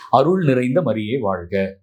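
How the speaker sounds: slow, measured prayerful recitation. Shown as a demonstration. Preacher shows the group how they pray the rosary, slowly.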